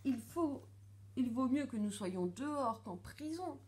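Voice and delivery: high-pitched little mouse pleading; urgent pleading. A narrator's reading. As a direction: beg him to flee, high and pressing. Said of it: "supplie Célestine". (supplication pressante, voix aiguë)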